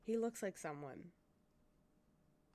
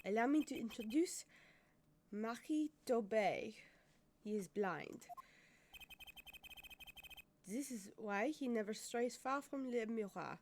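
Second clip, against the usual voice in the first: put-on French accent. Interpreter introducing the pianist, French accent. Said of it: "I have to do the French accent again".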